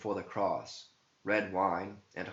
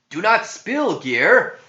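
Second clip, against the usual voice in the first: loud high warning shout; priest's loud urgent cry; 13 semitones higher, 14 dB louder, slower than usual. Acted. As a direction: yell to stop him. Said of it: "shouted Robe".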